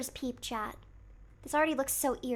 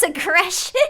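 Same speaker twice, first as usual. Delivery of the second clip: normal talking voice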